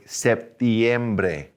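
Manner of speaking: "septiembre" with an I glide, sep-TYEM-bre; added I sound. Shown as a demonstration. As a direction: slip a little I before the E in "septiembre". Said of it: "put that little I in there".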